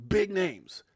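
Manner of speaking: whispered, slow teaser; hushed tease. Real, not acted. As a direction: lean in and whisper it like a secret. Hushed teaser about big names.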